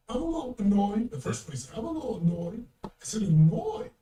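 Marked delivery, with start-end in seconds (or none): 0.1-1.1 imitating an unbothered partner, higher-pitched; mild, understated annoyance in a mimicked voice; barely upset. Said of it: "he doesn't seem slightly upset". 1.7-2.6 mimicked mild annoyance, a little high; barely upset. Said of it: "he doesn't seem slightly upset". 3.2-3.9 louder, rising, incredulous echo; annoyed disbelief. Retold or imitated. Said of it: "the word annoyed annoyed me".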